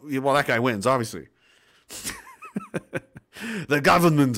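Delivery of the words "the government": a hint of Arnold Schwarzenegger's Austrian accent. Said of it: "say his name in the Arnold accent".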